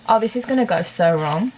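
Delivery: slipping into an Aussie accent; worried in a light Aussie accent; Australian accent. Real, not acted. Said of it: "Why do I keep going Australian?".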